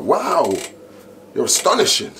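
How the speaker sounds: high, loud gushing compliment; imitated amazed praise. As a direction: act bowled over to boost your mate. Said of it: "and boost you".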